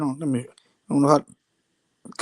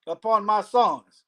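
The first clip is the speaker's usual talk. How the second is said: slow, careful rereading; deliberate, unhurried reading. Real, not acted. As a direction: take the verse slowly, phrase by phrase. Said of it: "Let me slow down".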